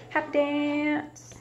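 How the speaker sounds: slow whisper, no voice; playful whisper. Shown as a demonstration. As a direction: whisper it like a fun secret to the kids. Inviting kids to happy dance.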